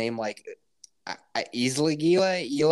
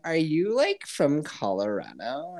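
mocking valley girl; slower than usual. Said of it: "she's like".

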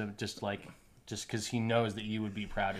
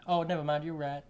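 a silly doubtful little gnome, pitched up; Blumpkin the gnome; 6 semitones higher than usual. Acted. Blumpkin the gnome doubting the math, squeaky and high.

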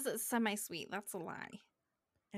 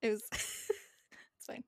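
whispering; much slower than usual. Real, not acted. Laughing it off in whisper.

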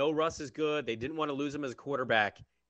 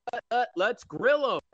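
George Foreman; 8 semitones higher than usual. Retold or imitated. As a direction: stretch out a playful stadium rallying cry. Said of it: "they play George Foreman".

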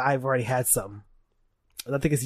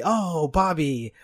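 Hank Hill; 2 semitones higher, much slower than usual. Pretend. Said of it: "He would say".

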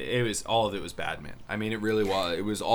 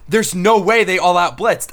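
higher and louder, slow disbelieving protest; doubtful protest; 8 semitones higher, 7 dB louder than usual. Retold or imitated. Rich doubting the all-out blitz, disbelieving protest. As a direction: refuse to accept it. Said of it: "He goes".

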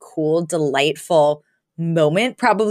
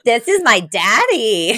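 put-on light little-girl voice, a bit slow; like a little child; 4 semitones higher, slower than usual. Sylvia introducing her daddy, light childlike voice. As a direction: say it like a small child proud of daddy. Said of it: "just the way, like, a little child would".

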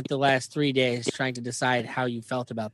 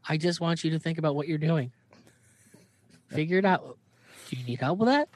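higher-pitched, mock patient dad; strained patience; 4 semitones higher, 3 dB louder than usual. Dad telling crying Irma to figure it out, mock strained patience. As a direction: coach the crying kid with tested patience.

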